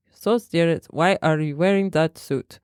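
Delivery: bad German accent that sounds Russian; badly faked German accent; attempted German accent. German trainer snapping at the boss, bad German accent. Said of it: "I can't do a German accent".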